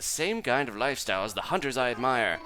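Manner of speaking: fancy cat character voice. Acted. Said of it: "gotta do some live voices here".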